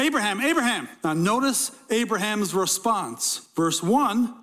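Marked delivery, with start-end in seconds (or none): 0.0-0.9 urgent double call. Acted. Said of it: "He's more emphatic. He's more urgency".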